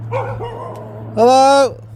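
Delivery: talking to a dog. Real, not acted. Greeting the dog, high voice.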